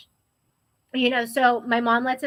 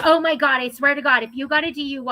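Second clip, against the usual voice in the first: mock angry mom; 2 semitones higher, 4 dB louder, faster than usual. Mom freaking out at daughter.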